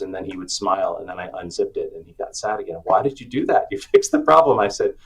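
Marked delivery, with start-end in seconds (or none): 2.9-4.6 put-on high, loud childlike whine, laughing through it; imitating upset son. Son protesting to dad, high mock whine. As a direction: play the small son complaining his fix was undone.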